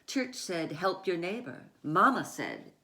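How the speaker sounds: put-on measured read-aloud voice for children; story narration. A narrator's reading. Author reading her picture book to children, measured.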